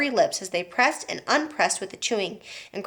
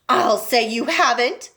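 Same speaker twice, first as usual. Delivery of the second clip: cried out; 3 semitones higher, 3 dB louder, slower than usual. Acted. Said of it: "cried Missus Beauregard".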